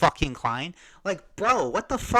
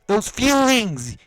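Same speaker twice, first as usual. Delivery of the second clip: slow, louder, higher shout of Those feelings; shouted emphasis; 5 semitones higher, 8 dB louder, much slower than usual. Real, not acted. Ranting at the boxer, real angry shout. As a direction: yell Those feelings, word by word. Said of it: "Ah, I'm sorry, guys".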